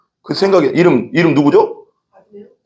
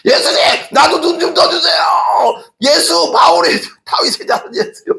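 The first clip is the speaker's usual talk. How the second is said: desperate cry for help; 12 semitones higher than usual. Acted. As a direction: scream for Jesus to open your eyes. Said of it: "더 소리 지를 것 같아".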